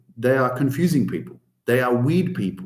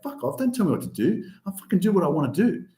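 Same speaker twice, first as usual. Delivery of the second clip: put-on rebellious teen; 3 semitones higher, faster than usual. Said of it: "You're like".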